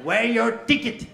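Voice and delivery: high, loud, slow "Where your ticket?"; guard losing patience; mock foreign guard. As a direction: demand it with a thick foreign lilt. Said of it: "Aí ele falou".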